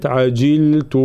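عجلت with a clear i after the jim; clear kasra. Shown as a demonstration. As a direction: say عجلت slowly as "ajiltu". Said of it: "لابد من تحقيق كسرة الجيم". (عجلت بتحقيق كسرة الجيم)

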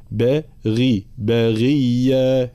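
"بغية" slowly, with a clear i after the ghayn; clear kasra. Shown as a demonstration. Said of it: "بيان حركة الكسر هنا". (بيان كسرة الغين في "بغية")

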